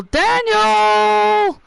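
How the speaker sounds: high drawn-out call of Daniel; sudden cry. Acted. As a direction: break off with a shocked high cry. Announcer voice cut off mid-line.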